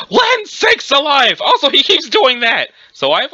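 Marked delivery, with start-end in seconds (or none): 0.1-1.4 put-on old man exclamation. Cornball exclamation by the grandpa.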